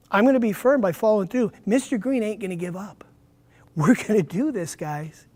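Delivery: lightly demonstrated firm, direct teacher. Shown as a demonstration. Teacher modelling a firm voice to his class, direct. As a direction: show them the firm follow-through. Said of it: "Follow through is part of being firm".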